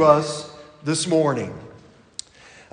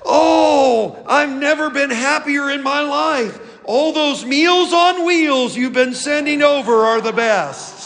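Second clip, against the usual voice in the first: cat; 6 semitones higher than usual. Acted. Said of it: "The cat yawns and stretches and says".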